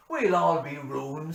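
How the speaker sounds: loud, high, ringing recital; bush poem recitation. Acted. Reciting Says Hanrahan for parishioners, loud declaiming. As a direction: declaim the ballad to the whole parish. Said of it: "said Hanrahan".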